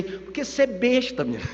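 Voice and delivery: put-on light, joking Ceará accent. Father as he would say it in Ceará, light Ceará accent. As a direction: toss it off with a touch of Ceará. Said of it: "Lá no Ceará, né, ele ia dizer assim".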